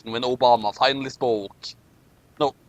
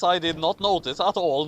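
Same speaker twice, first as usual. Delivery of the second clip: sarcastic. Real, not acted. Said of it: "slash sarcasm".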